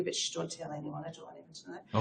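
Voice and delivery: hushed, half-joking confession; a playful, conspiratorial near-whisper; secretive aside. Real, not acted. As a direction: drop the voice as if sharing a secret. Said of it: "Okay, I won't".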